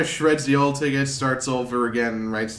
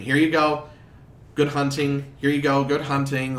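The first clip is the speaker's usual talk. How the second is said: busy clerk calling out; 4 semitones higher, 3 dB louder than usual. Acted.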